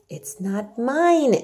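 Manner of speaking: slow, firm Yorkshire maid; stout answer. Acted. Martha firmly refuses to take the food. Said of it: "answered Martha stoutly".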